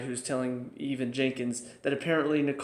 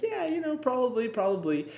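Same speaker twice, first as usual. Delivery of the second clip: airy, much higher offhand agreement; dismissive shrug; 9 semitones higher than usual. Retold or imitated. Librarians shrugging off Jenkins' fear, mock-casual. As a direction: brush it off like it's obvious. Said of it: "they're just kinda like".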